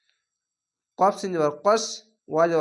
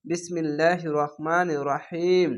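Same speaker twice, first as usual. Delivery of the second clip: recitation. Shown as a demonstration. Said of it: "প্রথমেই বলবেন".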